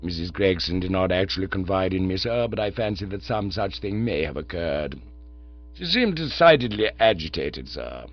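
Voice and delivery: calm, unruffled manservant; Jeeves the valet. Acted. Jeeves explains.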